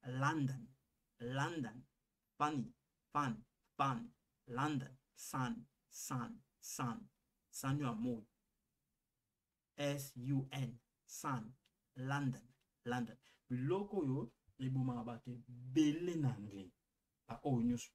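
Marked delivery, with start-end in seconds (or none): 0.1-1.8 London repeated as "LAN-dan", open first vowel; London with the vowel of sun; London with A sound. Shown as a demonstration. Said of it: "esuna lokola A". 2.4-7.0 fun, sun and London all with an open "ah"; fun, London, sun as separate model words; open A vowel drill. Shown as a demonstration. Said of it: "esuna lokola A". 12.0-13.2 London as "LAN-da", open first vowel; London said "lahn-dun"; London with A sound. Shown as a demonstration. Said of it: "esuna lokola A".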